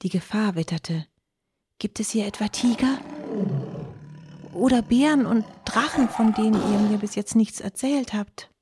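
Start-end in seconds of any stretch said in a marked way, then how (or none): 1.8-8.5 higher, worried fox voice; a small fox sensing danger; anxious little fox. A narrator's reading. Fox asks dogs about tigers, anxious and high.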